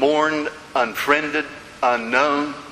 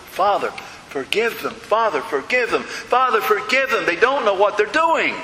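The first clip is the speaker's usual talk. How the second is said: each repeat more urgent, ending in a raised plea; building repeated prayer; 5 semitones higher than usual. Retold or imitated. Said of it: "he kept saying it over and over and over".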